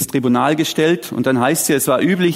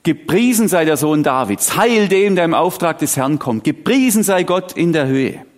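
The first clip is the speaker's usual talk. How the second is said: raised, proclaiming praise; crowd acclamation; 4 semitones higher than usual. Acted. Preacher voices crowd at the entry, proclaiming. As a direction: acclaim a king's entry, mildly exultant. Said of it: "Einzug mit dem Ruf der Menschenmenge".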